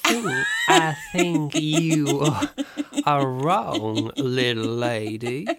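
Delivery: slow, drawn-out mock Midwestern drawl; Midwestern accent. Shown as a demonstration. Co-host proving he can master accents, hammed-up Midwestern accent. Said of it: "how a Midwestern accent goes".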